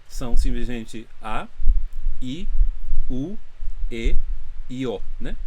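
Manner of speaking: each Japanese vowel said slowly and apart: A, I, U, E, O; slow vowel demo. Shown as a demonstration. Teacher demonstrating vowels to Portuguese-speaking students, slow and clear. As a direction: spell out the five vowels one by one, slowly. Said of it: "Do jeito que eu pronunciei".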